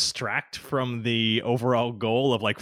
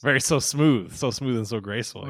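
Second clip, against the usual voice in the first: sarcastic. Real, not acted. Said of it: "Yeah, well, smooth".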